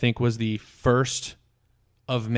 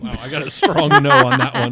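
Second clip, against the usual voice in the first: surprised; 10 semitones higher, 6 dB louder than usual. Real, not acted. Reacting to a firm no.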